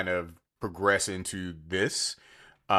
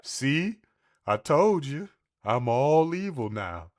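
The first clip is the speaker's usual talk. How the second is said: high, loud snarling cartoon dog; evil dog growl; 7 semitones higher, 5 dB louder, slower than usual. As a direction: gloat like a rabid cartoon dog. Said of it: "It's like".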